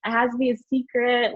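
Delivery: high, loud panicked protest, settling down; alarmed refusal. Retold or imitated. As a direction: shoot the idea down in alarm. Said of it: "And I'm telling them".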